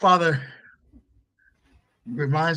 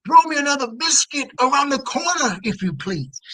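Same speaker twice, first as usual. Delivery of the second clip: big booming call from the den; booming dad voice; 12 semitones higher, 4 dB louder than usual. Acted. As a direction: boom it out like a burly father. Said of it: "It was the booming voice of our dad".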